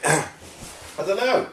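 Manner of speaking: high, very drawn-out mock uncertainty; exaggerated high-pitched shrug; acted clueless reply. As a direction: play helplessly unsure, stretching it out high. Acts out own reply to questioners.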